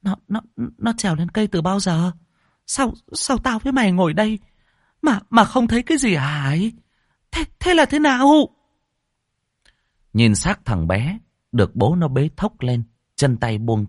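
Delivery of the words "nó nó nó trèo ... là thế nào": high, shocked stammer. Acted. Old woman asks her daughter-in-law, stammering in shock. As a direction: stutter in disbelief. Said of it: "Bà lắp bắp".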